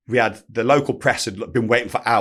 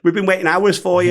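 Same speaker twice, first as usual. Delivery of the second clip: higher-pitched retold pleading; coaxing; 8 semitones higher, 4 dB louder than usual. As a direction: coax him like a sulking child. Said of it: "like, coaxing a child around".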